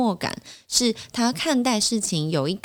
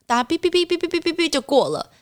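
imitated card beeps; 11 semitones higher than usual. Everyone beeping through the gates.

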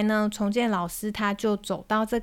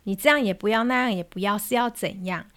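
angry mother. Retold or imitated. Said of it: "妈妈这时候就很生气了".

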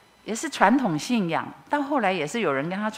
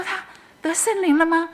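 high, louder astonished question; surprised wonder; 10 semitones higher, 4 dB louder than usual. Retold or imitated. Woman seeing sister-in-law weep in prayer, high surprised question. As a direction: gasp it out in amazement.

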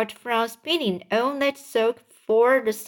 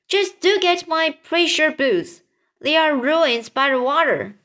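higher, fussing cry of dismay; 7 semitones higher, 4 dB louder than usual. Acted. Centipede fretting over ruined boots, mildly cried out. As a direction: complain loudly about a precious possession. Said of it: "cried the centipede".

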